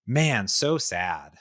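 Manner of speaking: slow, drawn-out sad sigh. Retold or imitated. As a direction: let it sag slowly. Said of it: "But I was just like".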